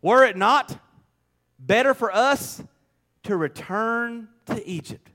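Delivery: mock-dramatic plea, slowing at the end; dramatic complaint. Israelites complaining to Moses, mildly hammed-up dramatic complaint. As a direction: voice the grumblers with drawn-out drama. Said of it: "they're getting pretty dramatic here".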